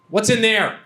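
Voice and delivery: pointed, mildly exasperated prompt; annoyed girlfriend. Retold or imitated. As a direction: imitate a partner losing patience. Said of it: "she was getting kind of annoyed".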